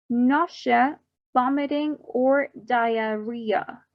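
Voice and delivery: measured model reading from "fever or chills" to "diarrhea", each term set apart; teacher's drill, "fever or chills" onward, with pauses between terms; pronunciation drill. Shown as a demonstration. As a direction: say each symptom carefully for learners to repeat, from "fever" to "diarrhea". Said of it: "so I repeat the pronunciation".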